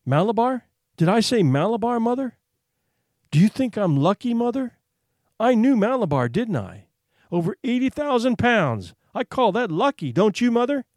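put-on high, eager boy's exclamations; feverish excitement. A narrator's reading. Sick boy boasting to his mother of his luck, feverishly excited.

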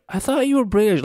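high-pitched incredulous protest; mock disbelief. Woman recounts her reaction to Depp's real accent, mock incredulous. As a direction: act out your own baffled complaint. Quotes own exasperated reaction to Depp.

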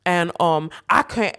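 put-on a failed stab at his accent; half-hearted impression of a rapper; attempted rapper accent. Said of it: "I can't even do his accent".

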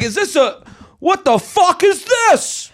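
a lightly done Boston guy, shouting and laughing; Boston accent. Pretend. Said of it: "Some guy from Boston".

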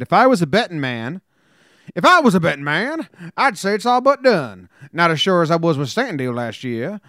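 reading the tweet in a lightly put-on old-timey Southern accent. Host reads a player's tweet in old-timey Southern accent. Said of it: "What was that old-timey Southern accent that you gave Jim Leyritz?".

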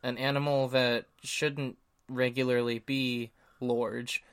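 put-on light upper Midlands accent, large with an O; jokey upper Midlands accent. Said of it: "upper Midlands accent".

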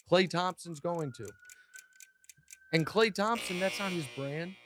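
lightly played lawyer asking the jury; mock defense lawyer. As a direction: rhetorical questions to the jury. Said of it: "time to defend him".

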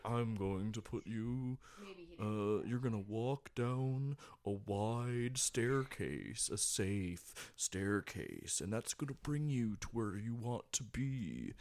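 slow, soft hypnotist voice. Retold or imitated. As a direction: lull them down the staircase, slowly. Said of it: "like, the least, like, hypnotic voice".

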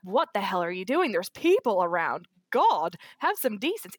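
lively retold scolding with big pitch swings; mock scandalised. Girlfriend scolding him for holding hands in public, mock scandalised. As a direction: act out a shocked telling-off, punching the exclamation.

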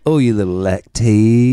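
put-on slow baby-talk cooing; cooing pet voice. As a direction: coo it like to a pet. Cooing pet name at pill.

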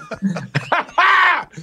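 big high cackling laugh. Real, not acted. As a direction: burst out laughing at your own joke. Laughing at own joke.

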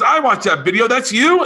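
high, amazed and disbelieving; older man at a bar, amazed, voiced high; amazed question. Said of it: "He goes".

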